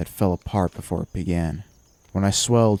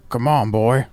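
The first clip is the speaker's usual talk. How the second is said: raised, higher urging call; urgent call; 5 semitones higher, 4 dB louder than usual. Acted. Ghost Masters hurrying the boy away, urgent call. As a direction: urge him to get moving. Ghost urges the narrator to flee.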